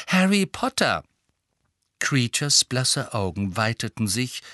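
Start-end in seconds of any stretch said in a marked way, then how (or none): 0.1-1.0 cautious. A narrator's reading. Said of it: "sagte Hermine behutsam".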